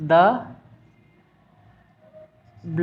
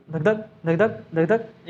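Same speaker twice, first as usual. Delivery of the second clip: heartbeat sound; 2 semitones lower, slower than usual. Shown as a demonstration. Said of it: "आवाज़ आता है, धक धक".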